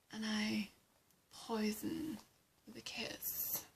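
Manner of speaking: soft, sultry villainess whisper; hushed femme fatale; seductive whisper. Acted. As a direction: let it fade into a whispered threat. Ivy boasts of her seductive kiss.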